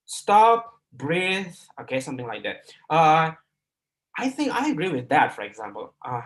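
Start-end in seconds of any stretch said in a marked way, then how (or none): 0.1-1.5 "Stop" punched high and loud, then "breathe" after a pause; "Stop", pause, "breathe", each word on its own; deliberate pauses. Shown as a demonstration. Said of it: "Intonation and pause". 4.2-5.4 lifted, moving tune on "I think I agree with that"; "I think I agree with that" with lively intonation; expressive intonation. Shown as a demonstration. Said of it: "Intonation and pause, for example".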